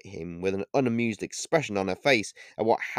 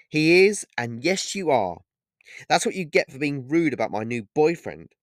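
joking tone; 5 semitones higher, 5 dB louder than usual. A narrator's reading. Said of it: "in a joking tone of voice".

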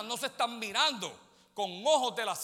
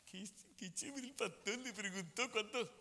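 mock proud parent; 8 dB quieter than usual. Parent proud of son's girlfriends.

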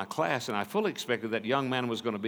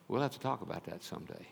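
regretful hush; 3 semitones lower, 10 dB quieter, faster than usual. Retold or imitated. Repeating his words with regret.

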